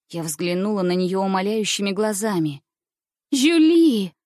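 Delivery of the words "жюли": high, loud cry torn from the chest; desperate cry. A narrator's reading. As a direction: call out to her in despair. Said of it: "вырвалось из моей груди".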